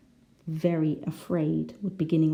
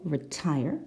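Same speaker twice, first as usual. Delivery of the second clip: "retire" stressed on the second syllable, rising at the end. Shown as a demonstration. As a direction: lean on the last syllable of "retire". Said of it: "it's the second syllable".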